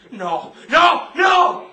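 escalating shouted denial. Acted. Prisoner denies, escalating.

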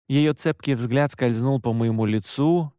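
ordinary delivery, nothing marked

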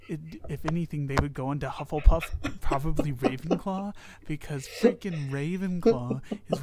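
loud, fired-up tirade; loud rant. Acted. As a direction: shout the rant at the author. Heated Hogwarts house tirade.

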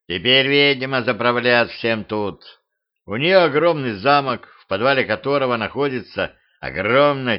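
lightly voiced ominous tiger; a hint of a dark storyteller beast; tiger mercenary voice. Tiger describes the witch.

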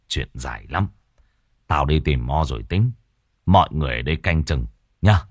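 lightly voiced stern older man; curt chief. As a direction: brush it off, then give orders. Chief answers briefly.

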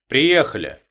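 bright cheerful announce. A narrator's reading. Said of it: "бодро сообщил водитель".

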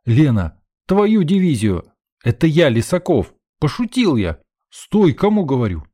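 yelling into the dark tunnel to stop her; calling out. Acted. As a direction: shout after her as she runs away. Shouting after a fleeing girl.

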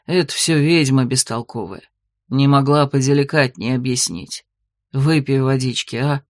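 a hint of a rueful werewolf fussing over her; werewolf husband.

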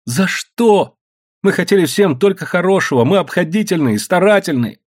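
high-pitched plaint building to a loud, drawn-out wail. A narrator's reading. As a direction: lament as if all is lost. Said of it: "завыла Анфиса".

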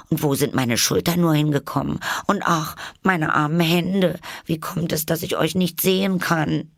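put-on high young girl's voice, worried; a lost little girl fretting over her hands; Alice, bewildered. A narrator's reading. Alice voice, held figure.

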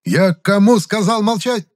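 high, slow barking question; barked. A narrator's reading. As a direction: snap it like an order. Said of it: "рявкнув". (рявкнуть на призраков)

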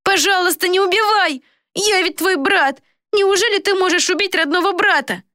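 very high, desperate plea; begging. A narrator's reading. Coward begging his brother for mercy, high. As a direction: whimper for mercy. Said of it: "возмолился Флорин".

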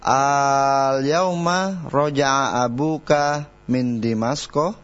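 slow reading, rising on Dimasko; question intonation. Shown as a demonstration. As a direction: end Dimasko with a questioning rise. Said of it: "Intonasi yang tepat".

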